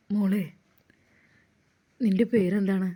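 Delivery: lightly voiced Ustad urging the girl to get up; young Ustad.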